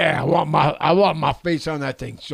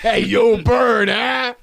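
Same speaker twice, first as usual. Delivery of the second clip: loud call; 6 semitones higher, 8 dB louder, slower than usual. Retold or imitated. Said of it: "your action figure would say".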